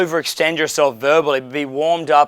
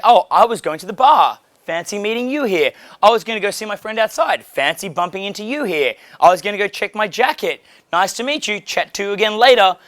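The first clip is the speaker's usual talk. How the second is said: casual incidental opener; 4 semitones higher than usual. Shown as a demonstration. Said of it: "So I was like".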